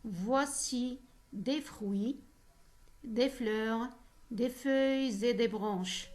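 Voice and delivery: slow verse reading, each F sound leaned on; slow poetry recitation for the class; poem recital. Shown as a demonstration. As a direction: recite the line slowly so the repeated F sounds come through. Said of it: "ou bien on va entendre".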